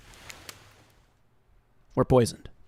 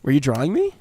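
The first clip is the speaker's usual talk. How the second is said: Trapper character voice. Acted.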